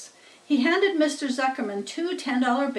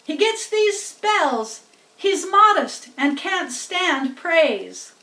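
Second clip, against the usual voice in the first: higher, slow, a hint of flustered excuse; flustered farmer; 6 semitones higher, 5 dB louder, slower than usual. A narrator's reading. Farmer excuses pig to the judge, flustered. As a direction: explain it away in a hurry.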